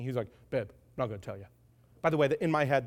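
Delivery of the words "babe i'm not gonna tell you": low, quiet meathead voice; Samson. Acted. Meathead husband refusing his wife, low dopey voice. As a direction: play a dull meathead, pitched right down. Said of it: "that's how Samson talked".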